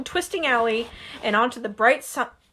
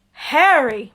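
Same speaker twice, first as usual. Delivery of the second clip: panting; 2 semitones higher, 6 dB louder than usual. Acted. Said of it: "Mister Weasley panted".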